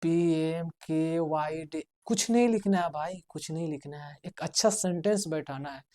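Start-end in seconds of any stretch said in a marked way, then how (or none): 0.0-1.8 spelled slowly. Shown as a demonstration. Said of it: "कुछ भी लिख दिए".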